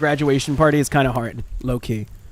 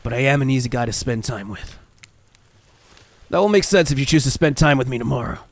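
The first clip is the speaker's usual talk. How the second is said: Trapper character voice. Acted.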